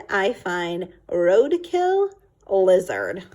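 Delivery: slow, rising, put-upon dad building to the punch; a fed-up dad unveiling the lizard; exasperated father. Acted. Angry father lecture.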